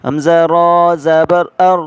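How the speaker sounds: "ار" with a full, heavy r. Shown as a demonstration. Teacher showing the heavy ra in "ار". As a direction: make the r in "ار" thick. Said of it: "را کو موٹا کریں اور پڑھیں".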